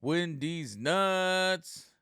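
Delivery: put-on high, loud, very slow kid squeal; little kid blurting. Dad imitating his daughter shouting in the car, high and loud. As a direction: stretch it out like an excited child. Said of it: "my daughter goes".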